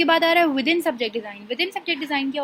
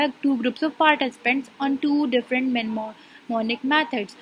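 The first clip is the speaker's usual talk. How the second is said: reading a definition aloud; much slower than usual. Shown as a demonstration. Teacher reads out example scenario.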